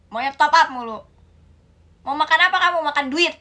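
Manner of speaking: put-on loud, furious mother laying into her child; angry scolding mother. Mother shouting at child who took money for game top-ups, furious. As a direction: yell at the kid who spent your money.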